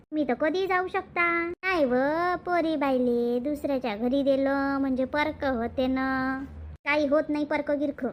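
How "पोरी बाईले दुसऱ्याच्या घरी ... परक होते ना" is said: low, slow, sorrowful; tearful. Acted. Mother mourning a married daughter becoming another's, tearful. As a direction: draw the words out as if close to tears. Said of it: "आ, रडू नका तर".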